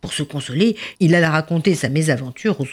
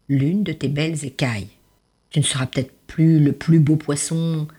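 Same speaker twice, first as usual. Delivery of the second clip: grave voice. Acted. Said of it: "d'une voix grave".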